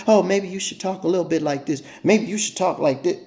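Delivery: mocking critics.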